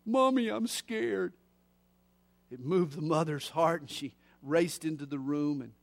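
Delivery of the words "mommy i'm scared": put-on little girl voice. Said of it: "the little girl's quivering voice".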